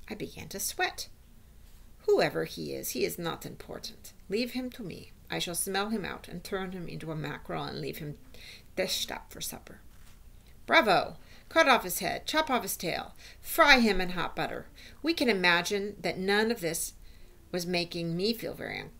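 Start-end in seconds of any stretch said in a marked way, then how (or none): 2.1-9.8 lightly voiced witch, falling away softly; dismissive witch with a touch of menace; menacing witch. Voices the Grand High Witch. 10.7-14.7 emphatic witches' cheer, mildly played; bloodthirsty cheering. Audience cheers the cruel plan.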